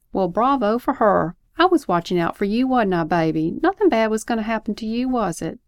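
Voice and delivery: lightly voiced, indignant parent; a touch of parental indignation; protesting parent. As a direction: butt in to defend yourself, then coax the child. Parent defends self, reassures child.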